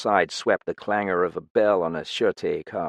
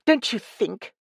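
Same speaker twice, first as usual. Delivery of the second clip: high, icy suggestion; cold and cutting, raised voice; frosty, voiced woman; frigid. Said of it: "she suggested frigidly".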